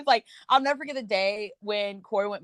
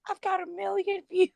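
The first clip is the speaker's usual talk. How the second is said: mock casual brag; 11 semitones higher than usual. Quoting roommate's news.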